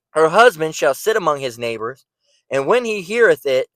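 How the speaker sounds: measured, emphatic verse reading; scripture reading. Acted. Preacher reading of the wicked woman's husband, emphatic scripture reading. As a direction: read it out firmly, drawing out the ending. Reads scripture aloud to listeners.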